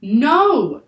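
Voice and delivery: a high, loud yell. A narrator's reading. Annie yells as the harpoon flies, loud. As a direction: scream it across the deck. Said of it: "yelled Annie".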